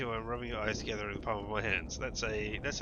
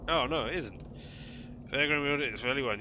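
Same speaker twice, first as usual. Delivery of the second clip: loud exclamation; 4 semitones higher, 6 dB louder than usual. Real, not acted. Reacting to game failure.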